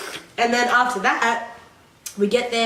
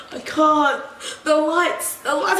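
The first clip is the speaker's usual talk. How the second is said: mock complaint; 4 semitones higher, slower than usual. Acting out complaining girls.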